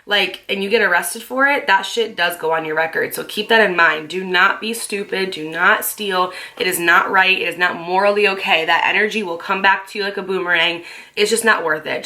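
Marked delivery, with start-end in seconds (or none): 5.3-6.3 each word slowed down, leaning on not; slow warning. Shown as a demonstration. To the viewers, warning them not to steal, slow and firm. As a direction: spell it out slowly for the viewers. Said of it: "warning the viewers".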